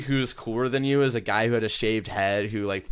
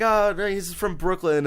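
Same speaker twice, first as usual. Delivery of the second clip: high, breezy correcting voice; retelling a movie line in a raised playful voice; mock correction; 9 semitones higher, 3 dB louder than usual. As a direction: toss it off in a higher quoted voice. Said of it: "He's like".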